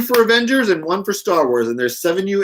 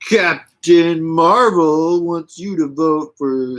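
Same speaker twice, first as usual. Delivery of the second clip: recruiting poster voice; 4 dB louder, slower than usual. Pretend. Mock recruiting poster slogan.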